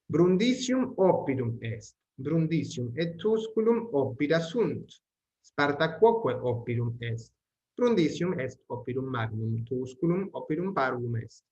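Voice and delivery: measured, careful textbook reading; steady read-aloud of Latin sentences; Latin text reading. Acted. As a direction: read each sentence out clearly for the class.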